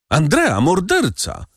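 high, frightened cry of accusation; shouted accusation. A narrator's reading. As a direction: scream out his name and crime. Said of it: "krzyknęła jedna z kobiet". (przerażony okrzyk oskarżenia)

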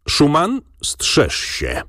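choked, strained warning; stifled voice. A narrator's reading. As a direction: push it out through a tight throat, as a threat. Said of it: "zduszonym głosem". (zduszonym głosem, z groźbą)

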